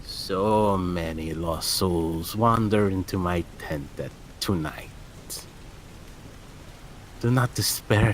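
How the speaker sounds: put-on old hag. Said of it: "her voice crackles like dried weeds".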